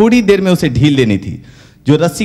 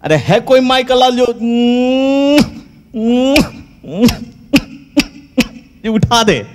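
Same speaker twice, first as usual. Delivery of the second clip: declaiming Angad; 9 semitones higher than usual. Acted. Angad retries his line loudly.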